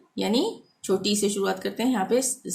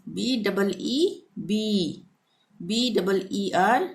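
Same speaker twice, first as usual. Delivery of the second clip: letters spelled slowly and evenly; slow spelling; much slower than usual. Shown as a demonstration. Teacher spelling for students, slow. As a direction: spell each letter carefully. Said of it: "spelling letters out".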